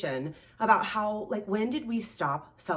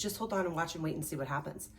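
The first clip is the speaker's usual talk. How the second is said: calm reply; 2 semitones lower, 6 dB quieter than usual. Retold or imitated. Fisherman telling the worried layman to wait, calmly.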